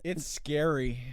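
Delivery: seance medium. Acted. Channels Mama Doo-Wop.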